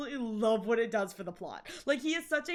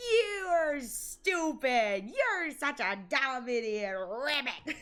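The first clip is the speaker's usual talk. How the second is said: imitated lording villain; much slower than usual. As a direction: lord it over them, stretching the insult. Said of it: "He's just like".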